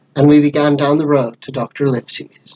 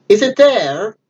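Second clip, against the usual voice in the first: higher, forceful roared question; 7 semitones higher, slower than usual. Acted. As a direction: demand an answer like a roaring villain. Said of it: "roared Pugh".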